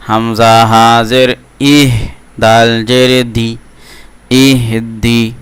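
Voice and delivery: slow, even, drawn-out syllable recitation; Quran spelling drill. Shown as a demonstration. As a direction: spell it out, then stretch the joined word. Teacher models spelling drill.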